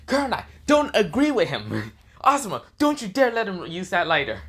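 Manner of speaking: high, frantic pleading outburst; panicked protest. Acted. Kakashi forbids friends lending the lighter, panicked protest. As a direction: cry out in panic, pitch far up.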